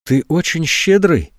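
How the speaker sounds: slow, small pitiful voice; жалко, тихо и медленно. A narrator's reading. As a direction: say it weakly, almost pleading. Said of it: "невыносимо жалко звучит её собственный голос".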